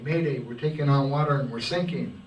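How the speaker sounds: ship captain yelling distress over the radio; frantic yell. Acted. Sinking captain shouts for help over radio, frantic yell. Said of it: "he's yelling".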